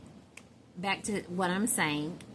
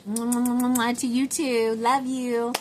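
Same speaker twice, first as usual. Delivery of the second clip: louder, higher gushing affection; shower her with mwahs, loudly; effusive blown kisses; 5 semitones higher, 6 dB louder than usual. Pretend. Sending love to a second friend, gushing kisses.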